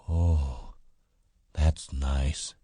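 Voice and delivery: lightly voiced simple man, savoring it; slow-witted big man, pleased. A narrator's reading. Big man stroking her hair.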